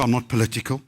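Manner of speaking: usual speaking voice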